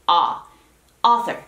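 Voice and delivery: "A" as an open AH, then "Author"; exact vowel demo. Shown as a demonstration. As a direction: model the open first vowel of "Author" alone, then the word. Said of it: "que salga ese sonido exactamente así".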